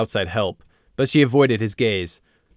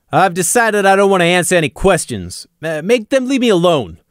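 Pebble Mill, nervous; 7 semitones higher, 5 dB louder than usual. A narrator's reading. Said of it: "Pebble Mill said".

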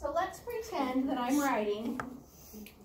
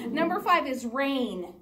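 laughing; 5 dB louder than usual. Real, not acted. Laughing during the spelling test.

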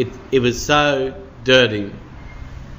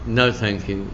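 cold calm refusal; 5 semitones lower, 5 dB quieter than usual. Acted. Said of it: "very casually and calmly and says".

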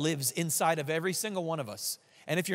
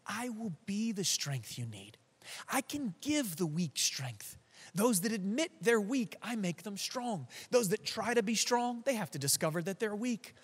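gentle voice of Jesus; 3 semitones higher, 4 dB quieter than usual. Acted. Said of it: "Jesus is trying to say to you".

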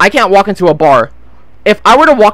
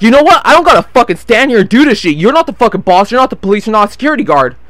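aggressive retort; 3 semitones higher than usual. Retold or imitated. Drunk man arguing with the boss, mildly aggressive. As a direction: push back with some aggression, imitating him. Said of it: "the dude starts getting aggressive".

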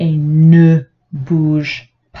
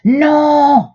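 firm no; 8 semitones higher, 4 dB louder than usual. A narrator's reading. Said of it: "répond le papa".

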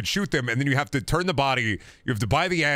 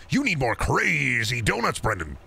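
imitating the customer. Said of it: "You're gonna say".

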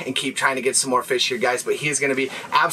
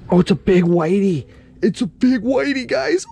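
excited high shout; 6 semitones higher, 4 dB louder than usual. Real, not acted. Landing big whitefish.

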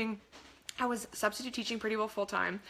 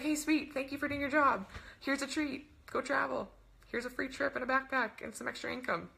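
lightly voiced cheery company, pitched up; generous company; 4 semitones higher than usual. Company thanking coach for doing the job, lightly voiced cheery giver. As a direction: lightly play a company handing out treats.

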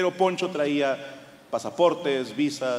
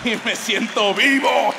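slow, louder and higher, savouring it; thrilled punchline; 6 semitones higher, 6 dB louder, slower than usual. Real, not acted. Comic confessing pen theft, slow thrilled punchline. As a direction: declare it like a rush of adrenaline. Punchline about stealing pens.

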